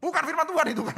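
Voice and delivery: amused correction with a laugh. Real, not acted. Laughs at gullibility.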